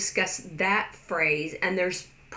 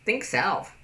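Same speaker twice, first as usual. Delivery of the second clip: level curt "Think self"; flat curt. Shown as a demonstration. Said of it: "As opposed to".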